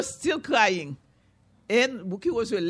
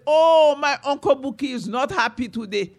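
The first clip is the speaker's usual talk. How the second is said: mock sympathy; 5 dB louder than usual. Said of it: "the calf said".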